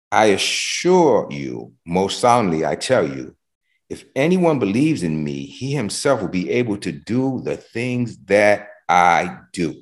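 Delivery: slow, measured reading of the verse; slow scripture reading. Shown as a demonstration. Preacher reading the verse to the congregation, slow and measured. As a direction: read each phrase slowly, weighing it.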